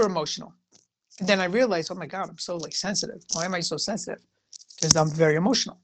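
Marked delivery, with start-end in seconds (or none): 1.9-4.2 softer, half to herself; a hushed aside to herself; quiet self-talk. Retold or imitated. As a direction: mutter it like a private realization. Retold inner thought about herself.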